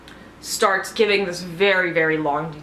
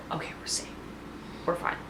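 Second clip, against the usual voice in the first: very soft, near-whispered self-reassurance; hushed relief; 2 semitones lower, 12 dB quieter, faster than usual. Retold or imitated. Viewer calming herself over the suspects, hushed.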